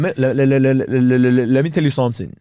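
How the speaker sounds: imitating the catchphrase with a grin; catchphrase impression. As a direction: deliver it like a mate's signature line. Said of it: "And yours will be".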